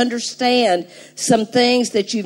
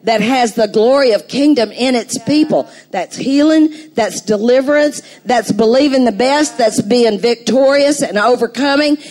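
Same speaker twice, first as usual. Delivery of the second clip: fervent preaching; 3 semitones higher, 3 dB louder than usual. Acted. Builds to full preaching.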